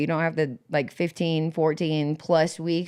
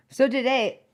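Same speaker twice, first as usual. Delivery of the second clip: mouth full; 6 semitones higher than usual. Real, not acted. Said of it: "I got weed in my mouth again".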